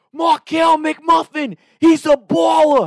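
put-on drawn-out, very loud, high New Jersey accent scream. Retelling heckling a player at the free throw line: screaming in a New Jersey accent. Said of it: "I would just start screaming that".

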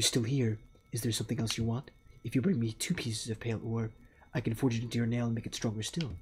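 deep, low-pitched voice. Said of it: "I am trying to do a deep voice".

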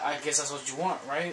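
ordinary talk

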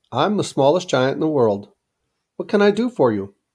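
ordinary delivery

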